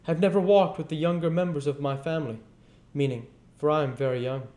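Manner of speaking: high, loud and quick hearty boast; jolly ghost voice. Acted. Ghost tells Scrooge about his family, high and fast. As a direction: chatter on like a cheerful giant. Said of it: "pursued the phantom".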